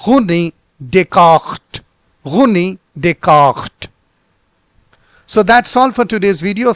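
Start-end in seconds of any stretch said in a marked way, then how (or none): 0.0-3.9 René Descartes slow, French r. Shown as a demonstration. Teacher recaps the French name. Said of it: "the first one was".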